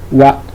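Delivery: teacher sounding out the syllable; demo syllable wa. Shown as a demonstration. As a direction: clear model syllable Wa, open a. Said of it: "donc ça forme quoi".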